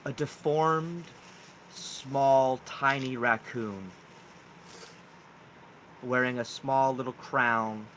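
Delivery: slow, deliberate scene setting; game master narration. Acted. Game master reveals giant raccoons at the campfire, slow narration. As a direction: draw out the reveal piece by piece.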